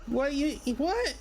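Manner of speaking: drawling backwoods swamp elf, confused; hillbilly elf voice. Acted. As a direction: play a groggy hillbilly ferryman.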